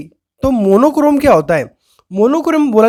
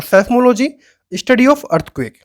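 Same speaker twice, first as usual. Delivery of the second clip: slow recap; much slower than usual. Shown as a demonstration. Teacher recaps term slowly.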